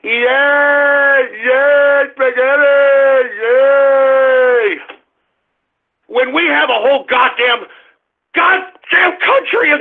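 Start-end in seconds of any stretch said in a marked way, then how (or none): 0.0-4.8 long drawn-out dopey yays; mock childish cheering. Host apes man-children cheering for spaghetti, mock-gleeful. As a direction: cheer like an overgrown toddler, mockingly.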